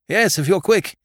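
high, loud reply; shouted reply. Acted. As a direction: shout back urgently. Answer shouted from bog.

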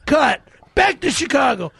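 yelling in a mock rage; angry shout. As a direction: shout like a throwing a tantrum. Mock tantrum demanding Chicago.

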